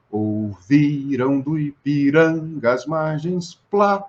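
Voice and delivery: Ouvirão do Ipiranga as margens, slow, each tonic syllable swelled; stressed tonic syllables. Shown as a demonstration. Teacher reciting the anthem line slowly to show the tonic syllables. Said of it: "a sílaba que eu aumentar vai ser a sílaba tônica".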